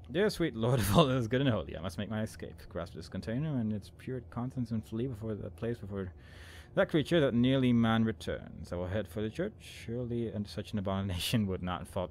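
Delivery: lightly theatrical read-aloud; dramatic journal reading. Acted. Player reading out the game journal, dramatic reading. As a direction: read it out as a solemn, fearful diary entry.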